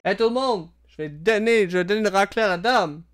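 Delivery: cocky champion taunt. Acted. Captain America taunting the crowd about the lady, boastful. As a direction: show off to the whole arena.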